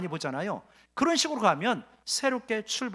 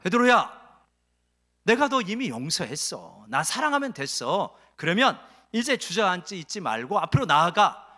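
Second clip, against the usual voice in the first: Jesus to Peter; 4 dB louder than usual. Acted.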